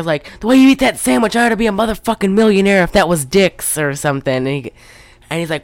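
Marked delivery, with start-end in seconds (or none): 0.4-3.8 mock pimp yell. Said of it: "he's yelling at one hooker".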